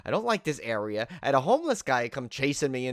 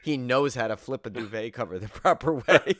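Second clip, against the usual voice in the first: laughing through the quote; 6 dB louder than usual. Real, not acted. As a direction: chuckle your way through the line. Laughing while quoting a thought.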